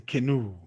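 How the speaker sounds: canoe as "kuh-NOO", falling at the end; same pronunciation. Shown as a demonstration. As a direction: say canoe with a weak first vowel and full "noo". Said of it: "The same thing".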